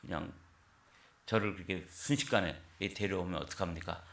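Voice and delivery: mild mock outrage; retold angry protest. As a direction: protest to God like a wronged young man, half acted. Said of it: "막 화를 냈다는 거예요".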